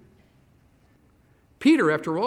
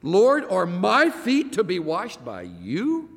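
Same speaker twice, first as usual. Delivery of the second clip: slow, higher, disbelieving question; incredulous Peter; 5 semitones higher, slower than usual. Retold or imitated. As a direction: drag out the disbelief, a bit higher. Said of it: "The Amplified Bible does a good job".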